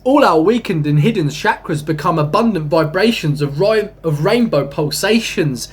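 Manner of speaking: slow, lofty poetry recital; poem reading. Acted. Reading his own spiritual poem to viewers, slow and lofty. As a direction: read it like a sacred verse, drawn out.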